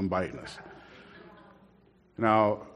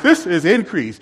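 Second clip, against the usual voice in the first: imitating comedian; 4 semitones higher, 4 dB louder than usual. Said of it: "He goes".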